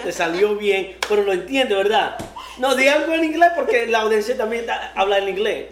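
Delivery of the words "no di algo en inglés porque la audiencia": laughing. Real, not acted. Host teasing guest about English.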